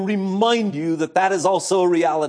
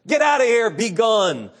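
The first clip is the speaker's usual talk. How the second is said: louder, higher shout of fury; raging shout; 4 semitones higher, 3 dB louder than usual. Retold or imitated. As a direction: throw them out, raging. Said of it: "He gnashed and raged at his friends".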